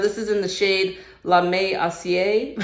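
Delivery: English speaker trying French words; careful attempt at French pronunciation; foreign accent in French. Shown as a demonstration. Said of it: "Sorry if my French is not the best".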